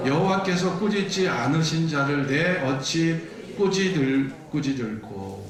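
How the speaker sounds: measured, chanted congregational reading; scripture reading. Acted. Preacher leads congregation through Balaam's oracle, measured scripture reading. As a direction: read the verses out in even, drawn-out phrases.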